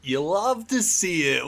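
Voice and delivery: drawn-out catchphrase entrance. Real, not acted. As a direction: stretch it out like a signature greeting. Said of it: "Just overly loud, screaming it".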